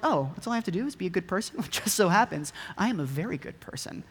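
quick, then smugly pleased with himself; mock self-satisfaction. Ruler answering Jesus about the commandments, lightly mocked as self-satisfied. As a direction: imitate a man sure of his own goodness. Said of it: "kinda suggesting at that point that he's perfect".

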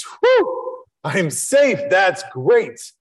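the pike sighs with relief that it is safe; relieved pike. Acted. Pike relieved after being caught.

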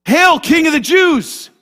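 loud, slow, sarcastic hail; mocking shout. Soldiers mocking Jesus in the fortress, loud sarcastic hail.

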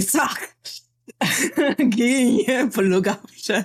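high, bright cheer breaking into a laugh; excited character cheer. Acted. Player imagining her character cheering with Selma, high excited squeal. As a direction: squeal it out with a giggle in the middle.

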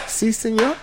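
mock Spanish-accented assistant, voice lifted. Man imitating his phone assistant's reply, Spanish accent. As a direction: answer as an obliging Spanish-speaking assistant, in accent. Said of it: "I had a Spanish joint".

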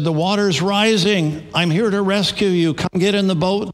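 a lightly acted rescuer yelling up; retold yell. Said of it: "yelled up and said".

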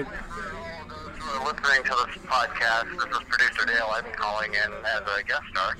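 caller on speakerphone; tinny voice over phone speaker. Real, not acted. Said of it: "I'll put you on speaker".

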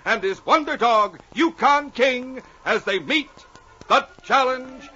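dramatic announcer read; radio announcer. Acted. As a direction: build excitement like an old radio intro. Announcer dramatic intro continues.

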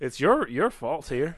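accidental hint of an Italian accent; slow, drawn-out words with a faint Italian lilt; Italian-sounding. Real, not acted. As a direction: slip slightly into Italian cadence. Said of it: "You just turned Italian for a second".

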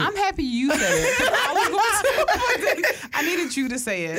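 laughing through the words; breaking up mid-sentence. Real, not acted. Laughing at the crackhead joke.

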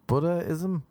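Buddhism with a tiny break before the ism; pause before ism. Real, not acted. Host unable to say isms smoothly, pausing in Buddhism. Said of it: "without a pause with the word ism".

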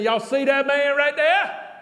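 high, slow imitation of her calling out; Vanessa's proud announcement. Preacher voices Vanessa pointing him out, high slow call. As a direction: draw it out and raise the pitch.

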